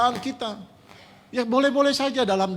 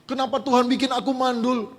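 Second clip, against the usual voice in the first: a mild mock whine, pitched a bit higher; grumbling complaint; 4 semitones higher than usual. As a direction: nag at God like a sulking wife, lightly. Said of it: "cuma ngomel-ngomel sama Tuhan".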